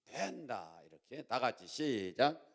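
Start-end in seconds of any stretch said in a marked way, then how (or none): 0.1-0.8 unsure imitation of Gyeongsang pronunciation; Gyeongsang accent. Shown as a demonstration. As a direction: have a go at Gyeongsang dialect. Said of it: "경상도 발음이 맞는지는".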